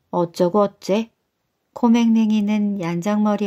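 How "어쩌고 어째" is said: slow, incredulous retort; slow affronted old man; indignant husband. Acted. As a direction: drag out the disbelief, offended. Husband angrily questions wife.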